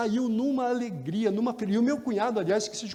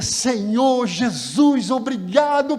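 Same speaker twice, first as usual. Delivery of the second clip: slow, much higher and louder cry to God; tearful shouted prayer; 7 semitones higher, 7 dB louder, much slower than usual. Retold or imitated. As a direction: cry out thanks with everything. Luiz praying with raised Bible.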